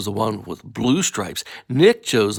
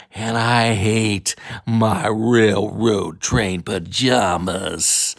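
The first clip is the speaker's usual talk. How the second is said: sulky grumble; 3 semitones lower, much slower than usual. Acted. Boy complains about pajamas.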